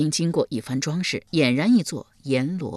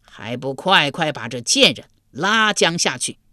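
angry command; 4 dB louder than usual. Acted. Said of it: "阎罗天子二次命令道".

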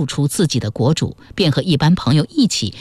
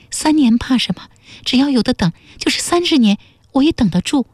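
音调明显抬高，模仿女子欢喜地自语; 用高嗓音演出她满怀期待的心声; 含笑暗想的女子; 8 semitones higher, faster than usual. A narrator's reading. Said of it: "侯琴笑着想". (女子含笑自语，声音高扬)

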